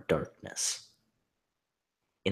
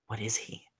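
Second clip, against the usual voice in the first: whispered thought; 4 semitones higher, 5 dB quieter than usual. Acted. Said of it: "she thought".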